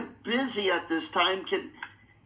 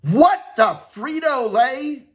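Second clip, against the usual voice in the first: excited exclamation; 5 semitones higher, 9 dB louder, slower than usual. Pretend. Announcing champion in excitement.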